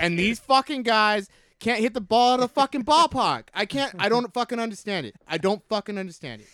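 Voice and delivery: exasperated Boston sports-fan rant; high, worked-up Boston accent. Shown as a demonstration. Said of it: "Let me hear your Boston accent".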